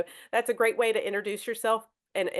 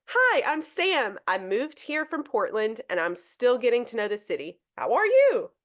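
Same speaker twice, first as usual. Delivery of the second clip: friendly greeting. Shown as a demonstration. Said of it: "So we have number one".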